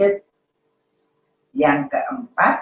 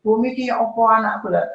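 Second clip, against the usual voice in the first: worried parent; 5 semitones higher, 4 dB louder than usual. Retold or imitated. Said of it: "ada yang tentara itu nggih".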